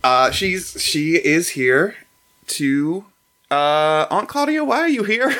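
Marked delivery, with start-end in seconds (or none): 4.1-5.3 high surprised host voice. Acted. Berrigan asks Claudia, high.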